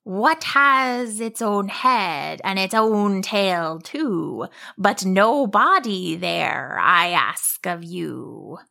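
slow riddling monster; drawn-out monster riddle. Acted.

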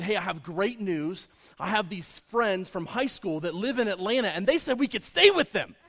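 excited boss. Retold or imitated. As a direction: build to a delighted announcement. Boss excitedly announces shared lodging.

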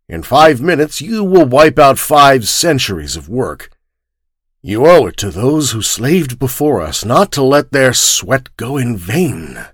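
spoke intensely. Acted. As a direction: press him hard, words heavy with duty. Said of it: "spoke intensely".

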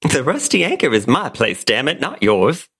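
lightly voiced Southern belle, indignant; a touch of a proud Southern lady staking her claim; Blanche Devereaux. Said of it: "In the role of Blanche Devereaux".

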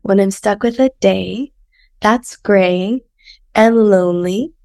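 hoarse, sultry sick voice. Acted. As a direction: read lyrics in a sick croak. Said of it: "Here's the lyrics. / enjoy my sick voice".

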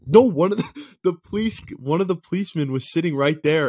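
high, loud burst breaking into a laugh; amused protest. Real, not acted. Guest correcting friend's call-the-police idea, high laughing protest.

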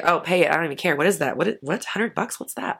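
carefree rich self waving off a bill; nonchalant shrug. Pretend. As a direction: brush it off like pocket change. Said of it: "I'd be like".

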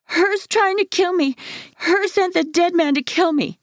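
very high, panicked scream. A narrator's reading. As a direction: scream in terror that she'll kill him. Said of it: "Devin screams".

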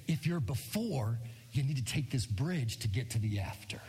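urgent hushed whisper. Real, not acted. Pastor whispering to the congregation, hushed. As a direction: lean in and whisper the point.

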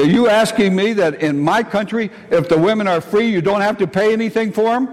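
high, incredulous retort; teasing disbelief, pitched high; mock incredulous. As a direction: ask it like they can't be serious. Incredulous retort to students' question.

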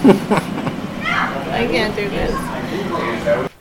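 tearful. Real, not acted. Niece overcome saying goodbye.

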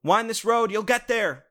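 high, easygoing chill guy; laid-back mentor voice. Retold or imitated. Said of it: "They're just like".

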